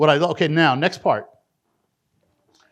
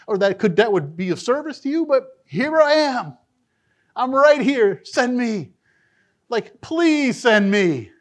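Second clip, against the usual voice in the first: higher, earnest humble plea; pleading Isaiah; 4 semitones higher than usual. Acted. Preacher voicing Isaiah pleading with God to send him, higher and earnest. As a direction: beg to be sent, overwhelmed.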